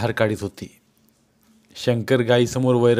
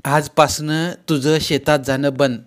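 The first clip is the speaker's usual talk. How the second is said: a bit higher mother-in-law's voice, protective; lightly voiced caring mother-in-law; 4 semitones higher, 3 dB louder than usual. Mother-in-law reassuring Yamuna, a bit higher. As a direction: fuss over her like a mother.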